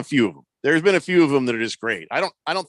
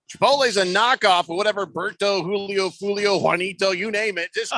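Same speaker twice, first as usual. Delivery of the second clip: impression of caller; 6 semitones higher than usual. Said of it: "He's like".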